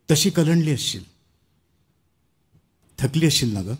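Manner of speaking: rhythmic declamation, chores listed in a swell; poem recitation. Acted. Child speaks to tired mother in a poem, poetic recitation. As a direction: build through the list, then settle tenderly.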